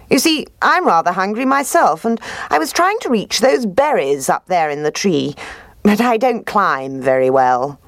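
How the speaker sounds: high, smooth sly fox. Acted. Fox voiced in story.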